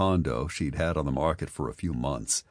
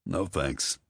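flat; 4 dB quieter than usual. Acted. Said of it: "Logan said flatly".

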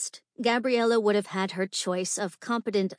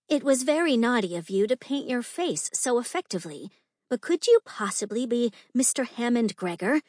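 lightly voiced coy young lady, a bit higher; young society lady; 3 semitones higher than usual. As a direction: tease the masked gentleman as a society lady. Same young lady questions Gabriella.

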